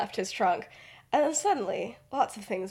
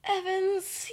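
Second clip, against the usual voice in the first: high drawn-out call; 11 semitones higher than usual. Retold or imitated. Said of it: "yawns and he's like".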